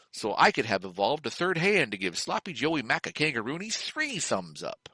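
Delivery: upbeat announcer selling a product; mock ad copy with lively swoops; ad read. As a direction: sell it like a food commercial. Reads out the show's mock ad.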